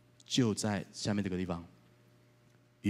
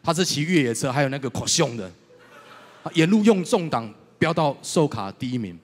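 laughing excited; 3 semitones higher, 7 dB louder than usual. Real, not acted.

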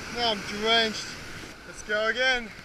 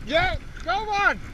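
excited urging; 10 semitones higher, 3 dB quieter, slower than usual. Real, not acted. Urging the fish on.

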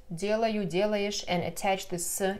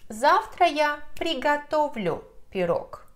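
contrast example; 7 semitones higher than usual. Shown as a demonstration. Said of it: "As opposed to".

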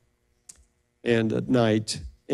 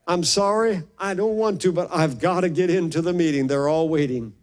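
tone 1; 5 semitones higher than usual. Retold or imitated. Doctor flustered, late for surgery.

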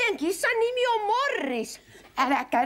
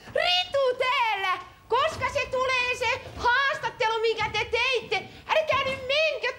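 high, urgent calling out; calling after someone; 6 semitones higher than usual. Acted. Wife calls after reporter Morris, high urgent calls. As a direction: call across the room to stop him leaving.

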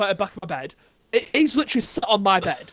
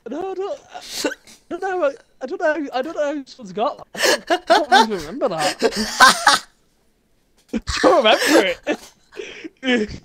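laughing; 5 semitones higher than usual. Real, not acted. Embarrassed about the photo.

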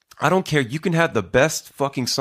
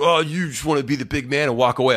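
higher mock-taunting jab; mad and aggro; 5 semitones higher than usual. Online stranger goading him for leaving, mock aggro. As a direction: imitate an aggrieved sneer, pitched up. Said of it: "super fucking mad and aggro".

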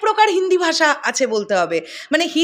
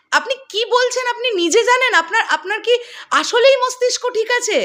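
higher, laughing through the words in disbelief; mocking laugh of real disbelief; 6 semitones higher than usual. Real, not acted. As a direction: laugh at how absurd the claim is. Mocking incredulous laugh at interviewee.

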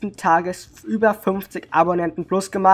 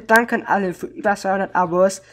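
ordinary talk, nothing marked

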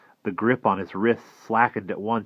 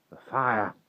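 startled, raised question; puzzled echo; 4 semitones higher than usual. Acted. Walker puzzled at Will's question, surprised.

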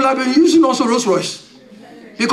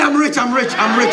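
declared aloud. Shown as a demonstration. Preacher tells church to shout rich. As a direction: shout it out to your neighbour. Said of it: "Tell somebody".

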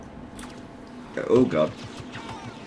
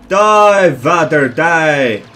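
louder cry of attack; battle cry; 2 semitones higher, 4 dB louder, much slower than usual. Real, not acted. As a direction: yell it as you strike. Attacking Vader in game.

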